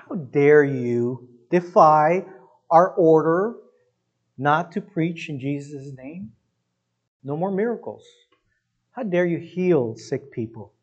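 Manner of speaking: mock-outraged authority, weighting the words; measured, theatrical anger; acted indignation. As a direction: scold like an affronted official, dragging out the opening. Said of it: "They were angry".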